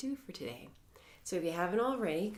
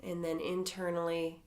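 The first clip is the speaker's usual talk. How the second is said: calm, measured meditation voice with long pauses; guided meditation. Acted. Teacher leading members through a mindfulness body scan, calm guided meditation.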